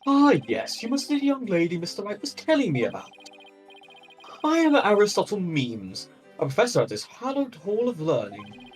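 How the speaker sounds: viking. Acted. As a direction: boom it out like a pompous Viking scholar. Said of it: "what Viking voice do I give him".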